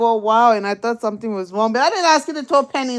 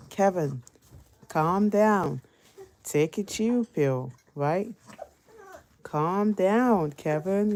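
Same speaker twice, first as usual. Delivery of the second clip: calming down; 2 semitones lower, 5 dB quieter, much slower than usual. Retold or imitated. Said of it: "I was like".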